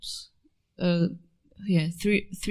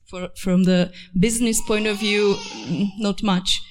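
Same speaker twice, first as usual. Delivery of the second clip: laughing. Real, not acted. Joking that it makes no sense.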